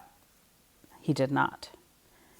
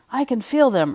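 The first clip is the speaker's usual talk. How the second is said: mock shout; 8 semitones higher, 3 dB louder than usual. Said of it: "shouted Buddy".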